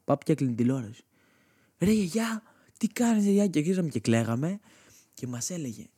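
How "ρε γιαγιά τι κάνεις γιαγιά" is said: put-on high, pleading child's cry; a kid begging his grandma; whiny kid protest. A boy protests to his grandma as she kills the cartoons, high and whiny.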